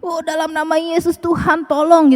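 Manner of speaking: quiet, faraway mumble like talking in a dream; a sleeper mumbling a prayer in a dream, soft and far off; mumbled sleep-talk. Retold or imitated. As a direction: murmur it half asleep. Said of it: "kita masih bisa ngoceh tuh".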